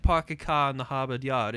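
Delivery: put-on Boston accent with dropped Rs; mock Boston accent. Friend explaining what Lucille hates, in a mock Boston accent. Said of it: "making fun of a Boston accent".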